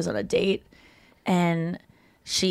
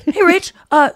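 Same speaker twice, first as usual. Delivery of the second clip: lightly voiced easygoing Ross; voicing Ross; 4 semitones higher than usual. Ross asking Rachel to use the phone, high and casual. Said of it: "he's just like".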